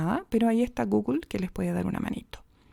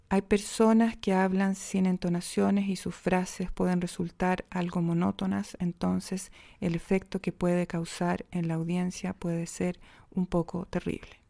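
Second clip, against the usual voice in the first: monotone demo; 2 semitones lower, 3 dB quieter than usual. Shown as a demonstration. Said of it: "¿Cómo podría ser una entonación plana? Va el ejemplo".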